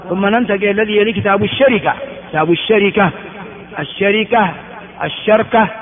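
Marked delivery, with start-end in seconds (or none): 3.8-4.5 الشركة with a after sh, i after r; full variant. Shown as a demonstration. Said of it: "الشركة ثلاث لغات". 5.0-5.7 الشركة as ash-sharka, vowelless r; lightened middle. Shown as a demonstration. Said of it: "أن تخفف بتسكين الوسط".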